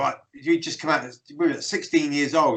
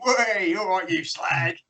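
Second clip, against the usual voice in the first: mock Cockney greeting, slightly higher; Cockney impression; 3 semitones higher, slower than usual. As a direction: put on a matey Cockney call. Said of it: "he's like a Cockney".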